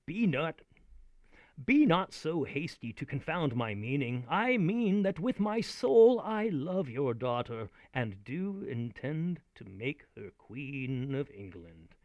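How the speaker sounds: slow, earnest Richard pleading; performed Richard the Third line; Shakespeare recital. Acted. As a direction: plead your love with weight, slowly. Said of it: "and he says".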